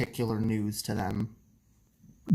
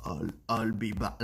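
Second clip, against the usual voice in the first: Terminator impression; slower than usual. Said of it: "No, the Terminator's like".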